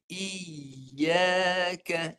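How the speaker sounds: Iyaka said level with no rise; Iyaka on one even pitch; flat iyaka. Shown as a demonstration. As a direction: keep Iyaka flat across. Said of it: "Ni rata je".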